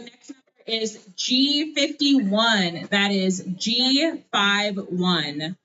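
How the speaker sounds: bingo caller. Acted. Calling bingo numbers slowly.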